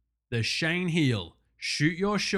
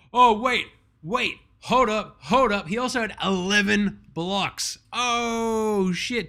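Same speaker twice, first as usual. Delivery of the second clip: shocked double take; 6 semitones higher, 4 dB louder, slower than usual. Real, not acted. Stat shock building up.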